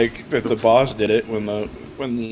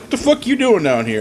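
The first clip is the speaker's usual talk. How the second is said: mock angry yell; 11 semitones higher, 3 dB louder than usual. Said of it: "he's like".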